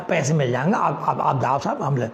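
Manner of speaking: lightly voiced vendor.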